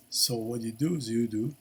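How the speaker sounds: talking through a yawn; words stretched by a yawn. Real, not acted. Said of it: "excuse me, I'm yawning over here".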